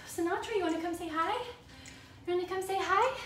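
rising sing-song call to a pet; pet talk. Real, not acted. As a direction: coax the pet over sweetly. Calling the pet over.

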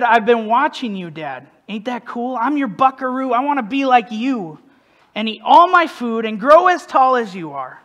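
lightly lifted, lilting lyric reading; spoken verse in a young son's words; reading song lyrics. Acted. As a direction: read the boy's verse aloud with bounce. Reads out song lyrics as the son.

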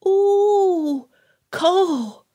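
put-on high, drawn-out little-child cooing; excited toddler. Toddler to father about the cold snow, excited. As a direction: coo it in wonder like a tiny child.

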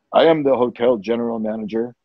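low, self-important hotel boss; imitating a stately manager; imposing manager. Manager turns round and reveals himself.

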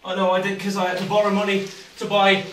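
laughing, shivering through it; high, breathless laughs from the cold; in ice cold water. Real, not acted.

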